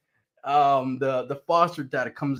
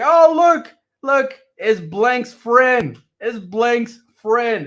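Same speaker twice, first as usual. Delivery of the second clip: high, slow, sing-song greeting of a cheery mom; excited foster mom; 8 semitones higher, 8 dB louder, much slower than usual. Retold or imitated. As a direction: greet him like a delighted mother. Foster mother greeting him.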